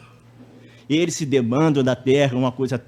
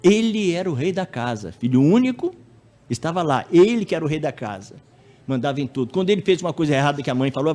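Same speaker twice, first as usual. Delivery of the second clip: usual speaking voice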